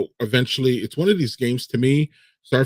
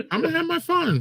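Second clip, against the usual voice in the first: laughing. Real, not acted. Laughing at own bad play.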